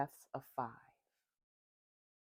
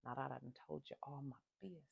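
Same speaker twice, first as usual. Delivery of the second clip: rushed embarrassed aside; 8 dB quieter, much faster than usual. Real, not acted. Embarrassed aside after oversharing.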